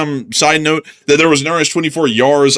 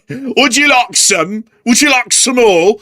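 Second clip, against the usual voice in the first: high, slow, sweet-talking offer; mock sales pitch; 10 semitones higher, slower than usual. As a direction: coax the buyer like a shopkeeper.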